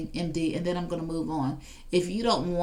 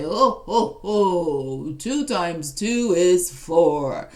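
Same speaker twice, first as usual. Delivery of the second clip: slow, louder jolly ho-ho Santa; 5 dB louder, much slower than usual. Retold or imitated. Smart speaker named Santa answers the math question, jolly and slow. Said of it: "he named his Santa".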